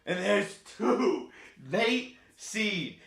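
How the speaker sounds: high, slow announcer call; excited race call. Real, not acted. Streamer calling his horse in for chat, excited. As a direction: stretch the name out proudly.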